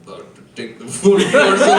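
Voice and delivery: a light Dinklage impression to his wife; lightly put-on dramatic voice; mock-dramatic bedroom line. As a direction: play the movie line as a solemn announcement. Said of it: "looks his wife in the eye".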